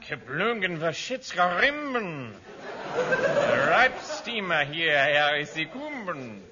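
slow fake German babble; hammy German officer; mock German gibberish.

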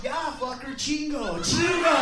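comic gleeful shout to the cook; mock gleeful order. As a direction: egg on the cook with glee. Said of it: "So he didn't know what just".

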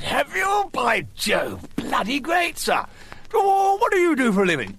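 excited posh bloke. Retold or imitated. Toff in a bar hails the clever stranger, high and hammed-up. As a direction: boom it out like a delighted toff.

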